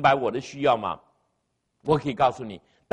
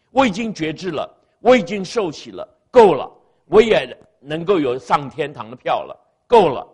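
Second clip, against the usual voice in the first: smug complacent believer; 7 dB louder than usual. Retold or imitated. Voicing complacent Christians.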